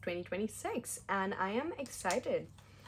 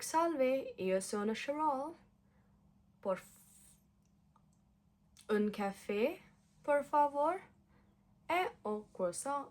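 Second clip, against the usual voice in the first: pretend Italian tourist; 5 semitones higher than usual. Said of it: "That's how I'll be speaking".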